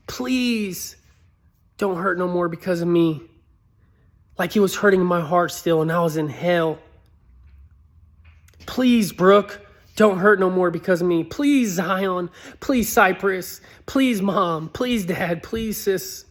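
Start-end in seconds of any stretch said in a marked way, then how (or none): 0.1-3.2 pleading wish. Retold or imitated. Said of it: "I was wishing". 8.7-16.2 high, louder pleading to each name; begging. Retold or imitated. Ghost begging his family one by one, loud and pleading. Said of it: "I was just begging".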